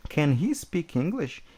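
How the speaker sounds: slow model question. Shown as a demonstration. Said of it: "Então, ó".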